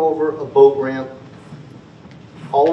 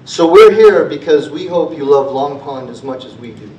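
impassioned appeal; 9 dB louder than usual. Real, not acted.

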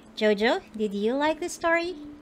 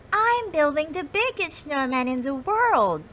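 proudly; 5 semitones higher than usual. Acted. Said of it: "Molly said proudly".

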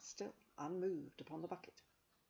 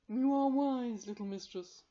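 cat voice; 8 semitones higher, 11 dB louder than usual. A narrator's reading. Carbonel praises her.

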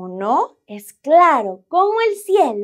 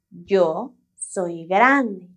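lower, slow, big-sounding; 4 semitones lower, much slower than usual. Shown as a demonstration. Showing children what big sounds like, lower and slow.

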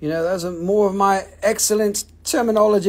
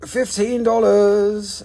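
drawn-out price; 3 dB louder, much slower than usual. Shown as a demonstration. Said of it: "so many percent off".

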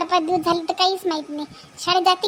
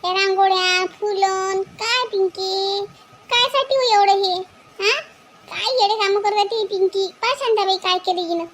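higher, amazed exclaiming at the decorations; surprised mother; 4 semitones higher, slower than usual. Acted. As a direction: marvel at what the girl has done. Mother amazed at rangoli and flowers. (उंच आवाजात आश्चर्यचकित आई)

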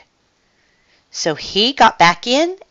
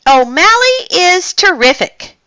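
high, loud gushing praise; excited cry; 13 semitones higher, 5 dB louder than usual. A narrator's reading. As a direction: exclaim it like an admiring kitten. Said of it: "cried Marie".

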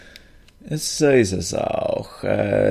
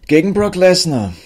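outraged disbelief; 9 semitones higher, 5 dB louder than usual. Real, not acted. His champion loses to Fandango.

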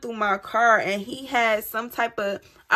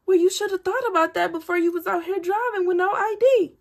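snippy police retort; 9 semitones higher than usual. Retold or imitated. Police scolding her.

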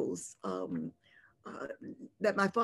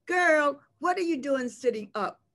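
raised, higher voice, scolding the patient; startled nurse scolding; 6 semitones higher, 5 dB louder than usual. Retold or imitated. Nurse catching the patient sitting up at night, raised scolding voice. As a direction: bark it out like a nurse who caught you out of bed.

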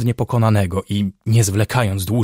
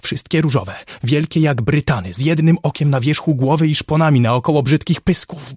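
raised, agitated delirious ramble; feverish delirium; 4 semitones higher, 3 dB louder than usual. Acted. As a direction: rave about monstrous visions, building in pitch and force. Delirious patient describes pink monsters.

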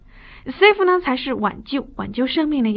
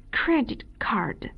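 soft slow whispered credit card; teacher whispering credit card; 8 dB quieter, much slower than usual. Shown as a demonstration. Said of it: "这个介词叫做".

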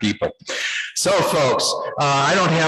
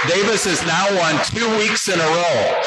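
excited shout; 6 semitones higher than usual. Real, not acted. Announcing repeat winner.

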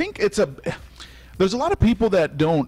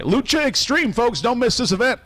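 hyped promo; 8 semitones higher than usual. Acted. Host promo sign-off.

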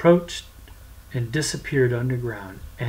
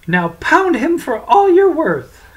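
high, loud order; loud command; 12 semitones higher, 9 dB louder than usual. Acted. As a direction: shout the order to the stick. Francis commands the stick.

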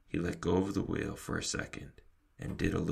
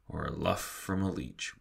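plain reading voice

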